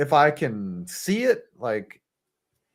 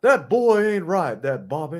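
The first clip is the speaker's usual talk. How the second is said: Hank Hill; 2 semitones higher than usual. Retold or imitated. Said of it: "I can't do a Hank Hill".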